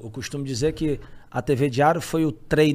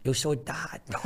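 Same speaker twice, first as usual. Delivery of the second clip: dad as Dado; 3 semitones lower, 8 dB quieter, slower than usual. Retold or imitated. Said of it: "doido com".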